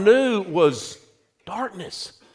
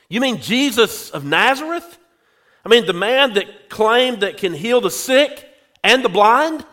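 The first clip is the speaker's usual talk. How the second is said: mildly astonished, rising question; incredulous questioning; 4 semitones higher than usual. Acted. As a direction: ask with a touch of eager disbelief. Blind man questions the informant.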